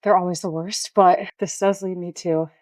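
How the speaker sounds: breathless after a hard set; out of breath. Real, not acted. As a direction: talk between heavy breaths. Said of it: "sorry, I'm literally out of breath".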